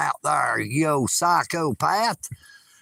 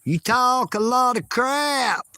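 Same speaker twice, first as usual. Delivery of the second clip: higher, pushy jab; mock taunt; 5 semitones higher than usual. Hillbilly persona taunting a viewer, mock tough. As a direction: needle him playfully.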